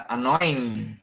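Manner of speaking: annoying with the "in" pushed through the nose; nasal oi in annoying. Shown as a demonstration. Teacher modeling annoying for students, nasal ending. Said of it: "cái âm in này nó đưa ra đường mũi".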